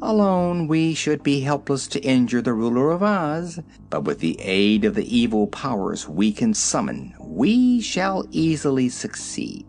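cocky gnome general. Acted. Guff explains his plan to King Roquat, unbothered and cocky. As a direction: coolly lecture the king as a clever old gnome.

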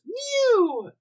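put-on squeaky high baby-like mew; infantile mew. Retelling the show's infantile heroine, high mew. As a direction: mimic a childlike character's tiny mew. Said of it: "the only word she says is".

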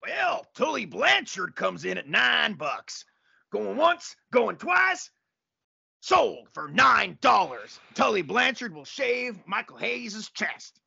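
stretched-out, rising auctioneer calls. Acted. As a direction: sell it off like an auctioneer. Auctioneer going once, going twice.

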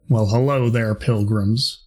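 lightly voiced Western cowboy greeting; cowboy drawl attempt. Shown as a demonstration. Game master testing a character voice, light cowboy. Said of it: "I kinda wanna do, like, a".

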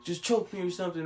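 high, whiny imitation of someone crying; mock tearful pleading. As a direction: beg desperately, as if breaking down. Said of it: "he breaks down and starts crying".

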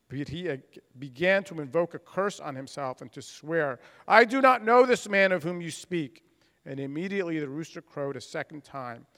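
measured, formal reading of the Gospel passage; scripture reading. Acted. Pastor reads the Gospel of Peter's denial to the congregation, in a formal reading voice. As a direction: read it out like a lector at the lectern.

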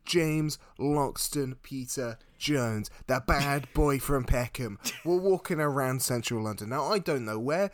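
lightly put-on Cockney patter. Comedian opens his London tale, mock Cockney. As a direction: play a cheeky mock Cockney storyteller. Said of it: "Am I still a Cockney?".

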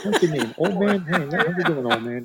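a hint of a brash Joey persona; lightly voiced streetwise guy greeting the room; Joey alter ego. Host's guest switches to his Joey persona, lightly voiced. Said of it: "let me change my alter ego".

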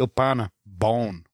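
put-on Italian words with no Italian accent; Robert De Niro. Co-host mocking the actor's accentless Italian, light impression. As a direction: lightly imitate an actor just saying foreign words. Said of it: "there's no Italian accent".

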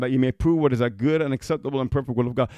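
rushed scripture reading; reading the verse quickly. Shown as a demonstration. Preacher reading Romans to his congregation, hurried. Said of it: "Let me read that again".

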